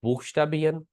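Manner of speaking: बीएन with a vowel in place of R; first variant, बीएन with a silent R. Shown as a demonstration. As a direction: glide through बीएन without any consonant R. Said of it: "दो तीन तरह से इसकी sound".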